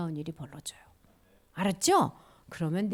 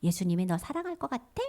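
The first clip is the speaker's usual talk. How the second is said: taunting Satan voice; 9 semitones higher, 4 dB quieter than usual. Acted. Satan casting doubt on Jesus' love, taunting voice. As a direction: needle the listener with mocking questions. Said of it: "이런 말에".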